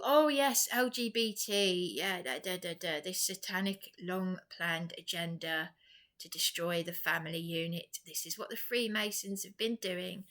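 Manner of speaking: mocking quote. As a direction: parody them gushing, then let it fade. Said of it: "They're all".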